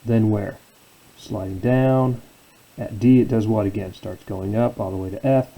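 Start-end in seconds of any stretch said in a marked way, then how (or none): 1.2-2.2 drawn-out slide. Shown as a demonstration. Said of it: "tracing the graph falling".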